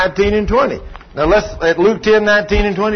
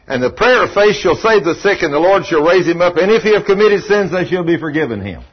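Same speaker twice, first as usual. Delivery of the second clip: emphatic, declaimed Bible verse; scripture reading. Real, not acted. Preacher recounts showing a husband the verse, emphatic scripture reading. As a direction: read it out firmly, settling on the last phrase.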